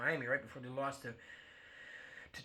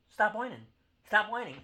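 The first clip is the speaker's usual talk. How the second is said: higher, louder yelled rebuke; shouted scolding; 6 semitones higher, 5 dB louder than usual. Acted. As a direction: yell it at the whiners. Rant at Kansas City fans.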